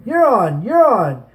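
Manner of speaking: the captains take up the chant; swelling cry. Acted. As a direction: let the cry build. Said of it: "The cry swelled".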